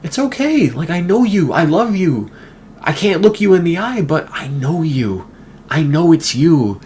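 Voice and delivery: high coaxing voice of a chimp who recognizes a human; Gordy voicing. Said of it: "he's like".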